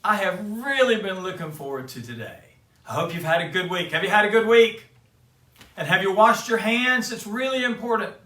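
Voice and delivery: cheery Papa Bear greeting. Acted. Papa Bear greeting the little cubs with cheer. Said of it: "it's Papa Bear".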